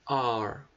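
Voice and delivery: R held long, a strong curled American R; drawn-out rhotic R; pulled American R. Shown as a demonstration. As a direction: pull the R out like a country R. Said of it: "R, puxando o R".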